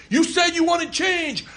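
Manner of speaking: high, drawn-out proclamation; mock triumphant leader. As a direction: address supporters like a self-important leader. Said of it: "look at my constituents".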